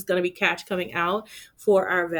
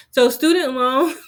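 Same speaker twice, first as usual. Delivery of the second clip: louder, half-laughing mock wail; mock crying over the student loan; 5 semitones higher, 8 dB louder than usual. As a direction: fake a whimper over the bill. Groans at the student loan bill.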